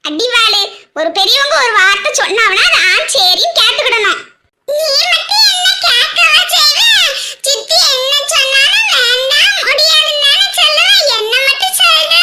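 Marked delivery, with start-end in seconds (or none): 4.7-12.1 put-on high, indignant child voice; cheeky little girl, arguing. Little girl talks back to her elder, indignant child voice. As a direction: argue back like a small child.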